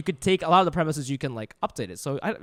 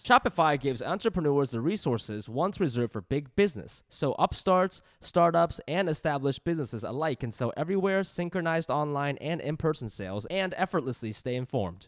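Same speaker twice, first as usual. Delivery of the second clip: polished sponsor-copy delivery; podcast ad read; 4 dB quieter than usual. Acted. Host explaining a commerce platform to listeners, ad read. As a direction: pitch it briskly to listeners, phrase by phrase.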